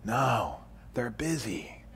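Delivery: put-on hushed little kid whisper; a child whispering into the phone; small child whispering. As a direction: whisper like a scared four-year-old. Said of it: "And the voice says".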